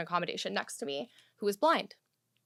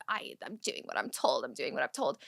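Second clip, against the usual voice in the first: soft, subdued imitation; meek excuse; 8 semitones lower, 7 dB quieter than usual. Exam lady answering a screaming mother, mock meek excuse. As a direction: mumble a meek defense under fire.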